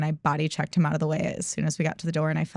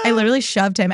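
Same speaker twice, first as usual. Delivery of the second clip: excited shout; 3 semitones higher, faster than usual. Real, not acted. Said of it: "shouting while laughing".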